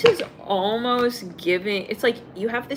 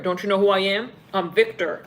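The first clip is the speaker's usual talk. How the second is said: arrogant man; 7 dB louder than usual. Retold or imitated. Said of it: "I'm hearing".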